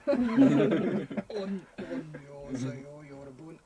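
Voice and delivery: pushed down low, strained. Shown as a demonstration. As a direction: force the voice as low as it goes.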